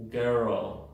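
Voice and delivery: put-on "girl" said as gur-ol; two-syllable girl. Shown as a demonstration. Teacher showing the L adds a syllable, "girl" as gur-ol. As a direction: open a schwa before the L in "girl". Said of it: "tiene dos sílabas".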